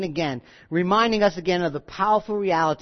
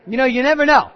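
mock priest; 4 semitones higher, 6 dB louder, faster than usual. Repeats the priest, laughing.

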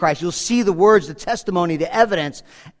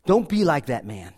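ordinary talk, nothing marked

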